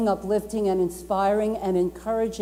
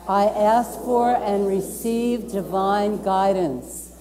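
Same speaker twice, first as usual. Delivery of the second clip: slow, deliberate affirmation, each word spaced; slow group affirmation; slower than usual. Real, not acted. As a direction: lead the room through it slowly, as if reciting a creed. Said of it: "You wanna say that with me?".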